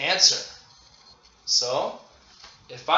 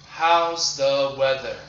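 slow model question; 4 dB louder than usual. Shown as a demonstration. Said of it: "you ask the question".

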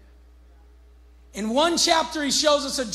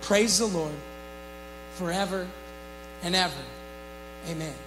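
solemn scripture reading with music under it; 2 semitones lower than usual. Acted. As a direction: read it as a lament, unhurried. Reads a psalm over music.

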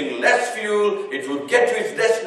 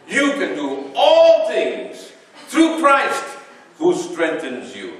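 preaching proclamation; 4 semitones higher, 3 dB louder than usual. Acted. Preacher tells congregation to say it.

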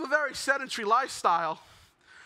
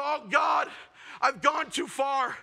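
mock horror; 3 semitones higher, slower than usual. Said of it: "I go".

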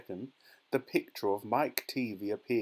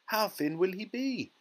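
high, worried question; anxious; 9 semitones higher than usual. A narrator's reading. Mother worries about stretching her son, anxious. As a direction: ask it fretfully, pitched up. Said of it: "asked Missus T V anxiously".

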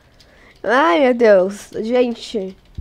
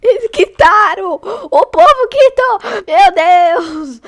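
laughing outcry; 5 semitones higher, slower than usual. Real, not acted. To her viewers, as other players quit, laughing outcry. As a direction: laugh it out in disbelief.

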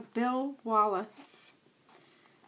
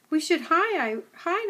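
a little higher, frightened stammer; whimpering; 4 semitones higher than usual. Acted. Young dog whimpering to the old setter about hiding. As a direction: whimper it, scared and stumbling. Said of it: "I whimpered".

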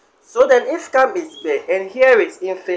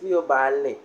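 "Miyo bale" with "bale" stressed and then falling; 6 semitones lower than usual. Shown as a demonstration. Teacher showing the stressed option, stress on bale. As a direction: press on "bale" at the end. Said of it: "when you are placing the stress".

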